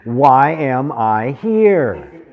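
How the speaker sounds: loud, very slow, drawn-out question; mimicking his energy. Teacher echoes a questioner's big energy, loud and slow. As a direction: stretch every word loudly like the eager asker. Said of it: "I'm trying to do it with his level of energy".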